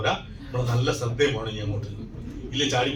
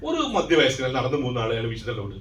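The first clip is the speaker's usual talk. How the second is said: usual speaking voice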